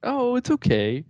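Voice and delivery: high, slow imitation of a forgiving mom; mock reassuring. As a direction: put on a high, soothing mom voice. Mocks mom's unlikely forgiving reply.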